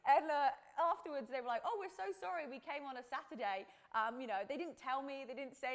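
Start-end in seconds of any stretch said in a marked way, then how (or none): 1.7-3.7 lightly imitated apologetic workers, pitched up; retold apology. Acts out apologetic gardeners.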